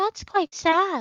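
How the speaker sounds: tiny, small, high-pitched gnome voice. Voicing a little gnome with a star wand behind you, small gnome voice. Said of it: "a small voice behind you going".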